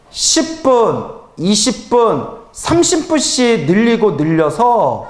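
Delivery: stretched slow counting, each step set apart; slow, spelled out. Real, not acted. Monk advising the devotee to raise prayer time, slow and deliberate. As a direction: lay out each step slowly.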